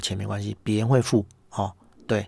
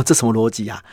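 laughing disbelief; 4 dB louder than usual. Retold or imitated. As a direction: repeat it louder through a laugh. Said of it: "我心想说". (笑着说，不敢相信)

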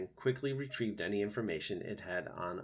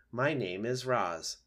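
slow, measured robot; lightly voiced robot, each word placed evenly; polite robot; 3 dB louder, slower than usual. Robot introducing itself to opossum, slow and measured.

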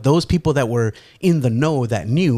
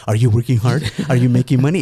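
that doting tone; faster than usual. Retold or imitated. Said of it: "she's saying it in that tone".

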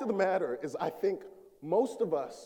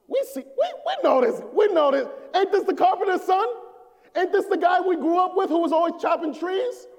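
scoffing crowd voice; 5 semitones higher than usual. Retold or imitated. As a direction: play the hometown scoffer who knew him as a boy. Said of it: "one voice in the crowd that said".

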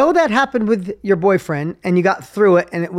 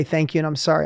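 mom's voice; 4 semitones lower, 5 dB quieter, faster than usual. Retold or imitated. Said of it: "she's like".

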